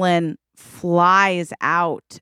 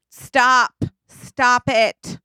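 higher, forceful order to halt; acted dramatic interruption; urgent command; 6 semitones higher, 3 dB louder, much slower than usual. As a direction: step in and halt them firmly.

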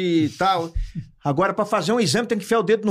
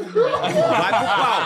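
laughing; much slower than usual. Real, not acted. Mock threat while laughing.

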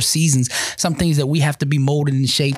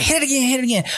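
much higher mom voice; mother's command; 12 semitones higher, faster than usual. Retold or imitated. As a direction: order it like his mother. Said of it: "She's like".

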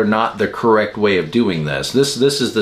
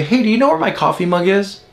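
higher, quick, casual question; nice and kind; 7 semitones higher, faster than usual. Shown as a demonstration. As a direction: ask it lightly, with no blame. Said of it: "be nice and I need to be kind".

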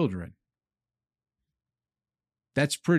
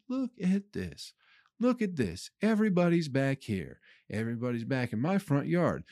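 excited lady; 4 dB quieter than usual. Retold or imitated. Lady filming the animals in her yard, mock-excited. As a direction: imitate a delighted woman showing off her yard, hushed. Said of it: "She's really excited".

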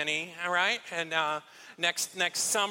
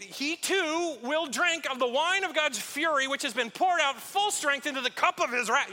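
gravelly doom voice; 6 semitones higher than usual. Acted. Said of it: "a little gravel in the voice".

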